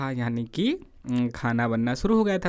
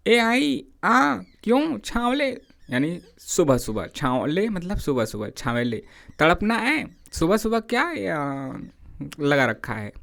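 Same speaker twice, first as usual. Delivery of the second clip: irritated retort; 4 semitones higher than usual. Retold or imitated. Hasaina snaps back at Shera.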